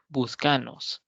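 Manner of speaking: "buscanos" con fuerza en "ca"; voseo, buscanos. Shown as a demonstration. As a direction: di "buscanos" acentuando la penúltima. (pronunciación de voseo: buscanos)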